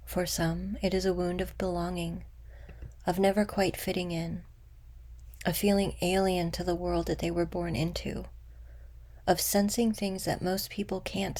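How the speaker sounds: unhurried meditation guide, long pauses between phrases; guided meditation. Acted. Guide leading listeners to meet an old wound with compassion, guided meditation. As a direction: guide them gently inward, letting phrases settle.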